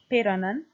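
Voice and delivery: "Piranan" stressed on its first syllable. Shown as a demonstration. Lecturer repeating Proto-Germanic example, stress on first syllable. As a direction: lean on the opening of "Piranan". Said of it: "the stress falls on the first syllable".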